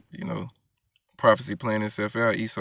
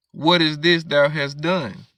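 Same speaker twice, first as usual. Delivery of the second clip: higher, louder and slow, a thundering question; the Lord rebukes Eve, slow booming and raised; booming rebuke of God; 5 semitones higher, 5 dB louder, slower than usual. Acted. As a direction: call her to account from on high.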